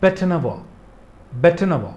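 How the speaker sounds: बेटनवॉ said bet-nuh-waa, no final r; बेटनवॉ with a silent ending; pronunciation demo. Shown as a demonstration. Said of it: "इसको बेटेनॉयर नहीं पढ़ेंगे".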